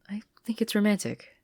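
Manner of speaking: breathless whisper. Acted. Marcy gushing about Sasha, whispered. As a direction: confess it in a dreamy whisper.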